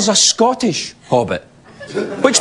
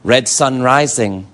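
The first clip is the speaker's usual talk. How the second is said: low, slow, portentous film line; mock-grave handsome actor; Orlando Bloom; 7 semitones lower than usual. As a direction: deliver it as a solemn omen. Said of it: "Orlando Bloom says in that movie".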